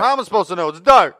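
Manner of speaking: hammed-up frightened shout; mock shriek. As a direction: shriek it into the dark. Voicing Jane shouting.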